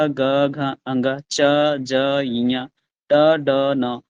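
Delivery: ग, घ, अंग, च, ज, इया, ट, ड, न said slowly one by one; name each letter clearly with a small pause; एक एक अक्षर धीरे और साफ़ बोलना; sounding out letters. Shown as a demonstration. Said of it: "देखिए जरा".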